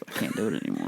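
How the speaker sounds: low, strained cartoon chicken; lightly voiced cartoon chicken. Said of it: "Chicken's voice".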